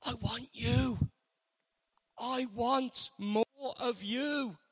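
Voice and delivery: longing. Acted. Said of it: "with the innermost longing of his being".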